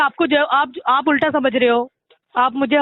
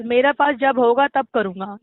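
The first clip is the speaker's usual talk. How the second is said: slow, lowered mock quote of the debtor; pointed quoting back; 4 semitones lower, slower than usual. Collection agent quotes the debtor's excuse back to question it, pointed. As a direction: repeat his excuse slowly and lower.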